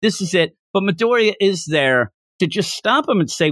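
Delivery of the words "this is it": high-pitched imitated panic; scared outburst. Scared boy faces big villains, mock panic. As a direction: fret aloud, pitched up, without shouting. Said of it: "I'm scared because".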